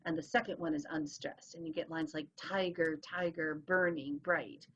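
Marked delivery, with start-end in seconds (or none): 2.4-4.7 "TIger, TIger, BURNing, BRIGHT"; trochaic stress. Shown as a demonstration. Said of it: "the first syllable gets the emphasis".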